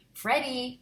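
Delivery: high, loud cry of his name; alarmed yell. Acted. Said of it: "my mom yelled".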